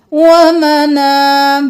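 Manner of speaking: slow, chanted tajweed recitation; Quranic recitation. Shown as a demonstration. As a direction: chant it slowly, stretching the vowels. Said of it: "drills word slowly".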